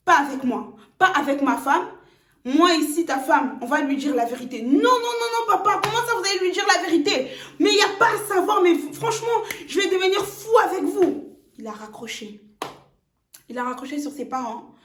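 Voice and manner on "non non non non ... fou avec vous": high, fast, half-laughing protest; panicked protest. Acted. Son on the phone begs his parents not to tell, high and rushed. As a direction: rush out the "non, non, non" in a pitched-up panic.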